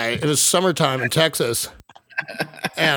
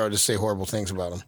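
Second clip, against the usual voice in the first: muttered aside; 8 semitones lower, 8 dB quieter, faster than usual. Real, not acted. Aside while Brad can't hear.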